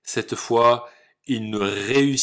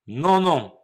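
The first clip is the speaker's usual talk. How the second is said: little pig voice; 7 semitones higher, 6 dB louder than usual. Acted. Three pigs refuse.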